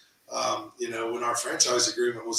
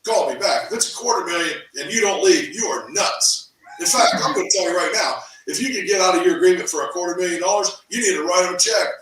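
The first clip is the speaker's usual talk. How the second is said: high, loud, fast insistence; a coach shouting urgent orders at his client, high and fast; convinced, fired up; 6 semitones higher, 5 dB louder than usual. Retold or imitated. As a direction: sell it like a coach who won't take no. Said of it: "That's how convinced he was".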